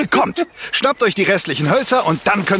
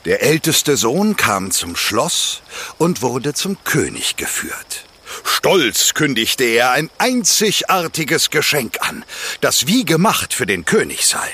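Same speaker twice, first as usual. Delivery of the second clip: calm storyteller reading a fairy tale; fireside storytelling; 3 semitones lower than usual. A narrator's reading. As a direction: tell it like a campfire tale. Campfire fairy tale narration.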